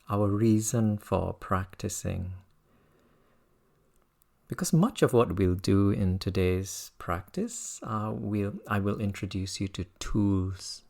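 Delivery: measured teaching with reflective pauses; guided meditation. Real, not acted. Teacher reminding students why they practice, calm meditation voice. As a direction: invite listeners to reflect, unhurriedly.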